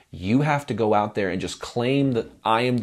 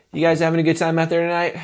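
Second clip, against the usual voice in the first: a shaky, unsure question to the crowd; nervous stage question; 8 semitones higher, 4 dB louder, faster than usual. Shown as a demonstration. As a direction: ask it like you fear the answer. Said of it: "you can hear the nervousness".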